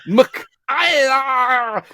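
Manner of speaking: mock Scots death yelp; Scottish scream. Shown as a demonstration.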